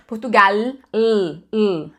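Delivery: "Portugal" ending in a clear L, not a U; clear final L. Shown as a demonstration. Teacher repeats the word for students: clear L demo. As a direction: hold the L at the end of "Portugal". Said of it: "pronunciado em português".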